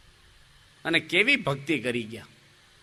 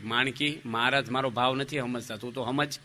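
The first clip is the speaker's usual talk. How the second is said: softer, confiding into the horse's ear; whispered into the mare's ear; 3 semitones lower, 5 dB quieter than usual. Retold or imitated. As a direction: lean in and murmur secretly to the mare. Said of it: "ઘોડીના કાનમાં કહે છે". (ઘોડીના કાનમાં ધીમેથી કહેવું)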